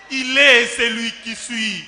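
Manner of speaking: high, loud preacher's declamation, rising to a shout; triumphant climax. Acted. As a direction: build to a shouted proclamation of faith. Climax of the devotional poem. (final triomphal, proclamé à pleine voix)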